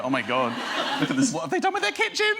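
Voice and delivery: nosy excitement. Retold or imitated. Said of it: "run riot and go".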